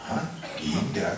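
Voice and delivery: a touch of surprised disbelief; mock confused wife from the back room; puzzled wife. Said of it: "kata dia di belakang". (istri heran, agak kaget)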